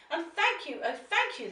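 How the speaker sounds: high, heartfelt thanks; a touch of grateful cry; grateful witch. Acted. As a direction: thank them with feeling. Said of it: "the grateful witch cried".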